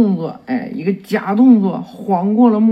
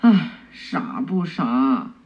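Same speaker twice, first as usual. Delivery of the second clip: exasperated sigh; 3 semitones lower, slower than usual. Acted. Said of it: "愁眉苦脸，无奈的看他一眼".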